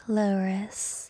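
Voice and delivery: slow low register demo. Shown as a demonstration. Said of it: "High Iris or low Iris?".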